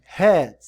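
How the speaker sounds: "Head," said loud with a clear English h; English word shown. Shown as a demonstration. Teacher reads the card aloud, loud "Head,". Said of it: "melhor maneira de ler isso aqui".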